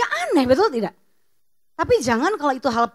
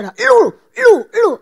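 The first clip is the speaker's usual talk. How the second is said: loud, much higher mock snapping; rude spouse yelling; 8 semitones higher, 12 dB louder, much slower than usual. Spouse snapping rudely at the other, loud mock yell. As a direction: snap it at your spouse.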